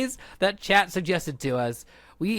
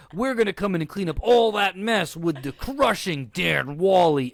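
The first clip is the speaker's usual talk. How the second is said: monster truck ad. Acted. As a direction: sell the Monday cleanup crew. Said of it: "reading this as a monster truck advertisement".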